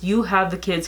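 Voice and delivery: curt, flat question with no greeting; blunt version. Shown as a demonstration. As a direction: ask bluntly, no warmth. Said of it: "No, it's just".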